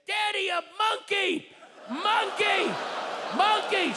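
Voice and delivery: put-on high, loud shouted kid's yell; child screaming. Daughter yelling at the man in the café, high and loud. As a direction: shriek it across the café. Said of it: "She's screaming".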